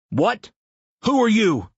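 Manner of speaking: high, startled yelp of a caught man. A narrator's reading. A man caught in his lab, startled and high. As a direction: catch him off guard, let it jump up.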